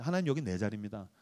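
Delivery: quiet, intimate aside to God; a hushed little prayer at his pew. Retold or imitated. Pastor softly claiming his seat before God.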